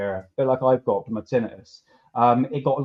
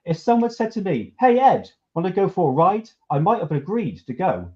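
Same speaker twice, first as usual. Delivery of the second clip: mildly indignant read-out, pitched up; 4 semitones higher than usual. Acted. Host reading out an abductee's angry written account, mildly indignant. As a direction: read it aloud with a touch of mock outrage. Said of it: "He was really angry".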